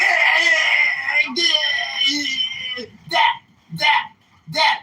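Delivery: imitating Pepe. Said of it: "he sounds like".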